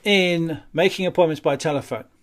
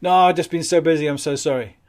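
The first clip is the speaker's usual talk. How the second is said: flustered customer; 2 semitones higher, 6 dB louder than usual. Retold or imitated. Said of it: "the response is then".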